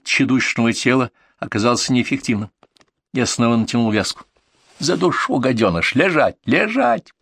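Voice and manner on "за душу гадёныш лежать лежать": rising shouts, the last Лежать much higher; commanding shout. Acted. Choking the patient down, he shouts at him to lie still. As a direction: order him down, harder each time.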